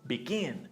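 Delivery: "begin" with the stress on GIN; be-GIN, second syllable carrying the word. Shown as a demonstration. Teacher showing learners the stress rule, stressing the end of "begin". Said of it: "stress is also on the second syllable".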